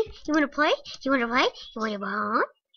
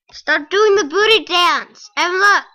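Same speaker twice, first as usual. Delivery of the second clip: higher, louder scold at the dog; 5 semitones higher, 10 dB louder than usual. Real, not acted. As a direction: shout at the dog to stop.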